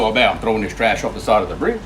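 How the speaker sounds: Cajun Boudreaux. Acted. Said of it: "Boudreaux said".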